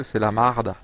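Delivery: "marde" with an open a, as Québécois say it. Shown as a demonstration. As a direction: say "marde" with a broad ah vowel. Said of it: "un truc marrant chez les Québécois, ils disent".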